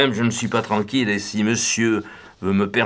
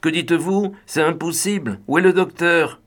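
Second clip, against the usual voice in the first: high, anguished disbelief, last question louder; anguished cry; 8 semitones higher, 3 dB louder than usual. A narrator's reading. Young Raymond crying out on hearing of the death, anguished and high. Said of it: "la voix d'angoissé mais incrédule du jeune Raymond s'écrier".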